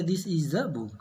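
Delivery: "the" said short as "duh" before "book". Shown as a demonstration. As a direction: keep "the" weak before the consonant. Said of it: "द ही पढ़ेंगे". ("the" को "द" बोलें, छोटा)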